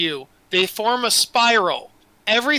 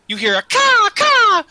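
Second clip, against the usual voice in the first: raven caw; 13 semitones higher, 6 dB louder than usual. Acted. Narrator imitating raven call.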